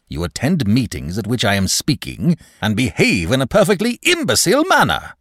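irate manager. Acted. Manager complains of clerk at his meetings, irate. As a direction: build to a high outraged finish.

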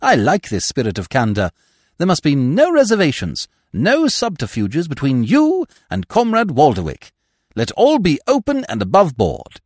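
lightly declaimed, genial little speech; a hint of pompous cheer; hearty club orator. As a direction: proclaim openness with mock grandeur. Smith makes a grand little speech.

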